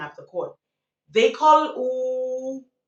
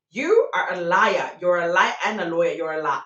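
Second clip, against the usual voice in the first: louder, mock-indignant accusing; retold accusation; 2 semitones lower, 4 dB louder than usual. Radio hosts call out the cheater, imitated indignation. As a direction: hammer out the charge.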